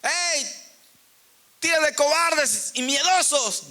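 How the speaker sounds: mock scolding. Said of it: "Jesús les habló diciendo".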